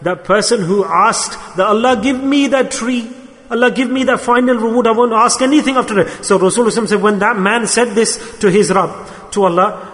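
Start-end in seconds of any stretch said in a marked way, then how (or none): 1.6-6.2 higher-pitched earnest plea; acted pleading. Man asking Allah for the final reward, pleading. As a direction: plead for one last favour.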